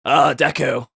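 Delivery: understated anime rival catchphrase; low-key mock battle cry; Bakugo catchphrase imitation. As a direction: toss off the catchphrase at talking level. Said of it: "how he speaks normally".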